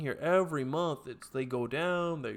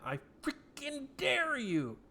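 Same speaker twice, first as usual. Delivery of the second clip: taunting dare; 12 semitones higher, slower than usual. Real, not acted. Taunting the revolution.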